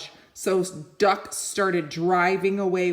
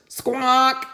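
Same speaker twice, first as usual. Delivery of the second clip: chicken squawk; 6 semitones higher, 5 dB louder than usual. Acted. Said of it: "said Chicken".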